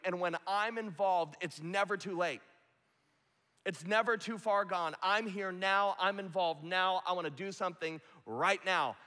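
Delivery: a hint of Jesus gently rebuking his friend Martha; Jesus confronting Martha. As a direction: challenge her like a loving teacher. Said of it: "he's going".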